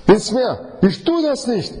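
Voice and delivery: high, stubborn refusing voice throughout; voicing stubborn Jona. Preacher acts Jona refusing to pray to the sailors, high and stubborn. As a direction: play Jona digging his heels in, high and defiant.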